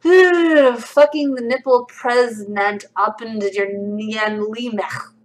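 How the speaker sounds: very slow, word by word; laboured reading. Acted. Streamer reading a garbled comment, laboured reading. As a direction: puzzle through it slowly, stretching each word.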